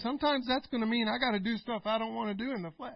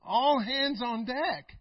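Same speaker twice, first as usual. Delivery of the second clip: savoured slowly; much slower than usual. Shown as a demonstration. Savouring a favourite phrase.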